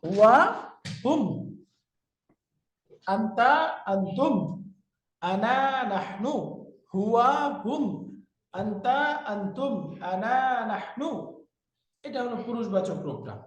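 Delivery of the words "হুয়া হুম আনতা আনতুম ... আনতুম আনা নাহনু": measured drill, two words at a time; evenly paced memorization chant; paired recitation. Shown as a demonstration. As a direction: recite in pairs with a pause after each. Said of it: "একসাথে দুইটা উচ্চারণ করব".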